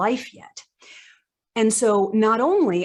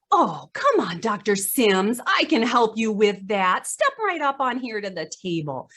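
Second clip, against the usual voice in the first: mock elderspeak. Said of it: "somebody says".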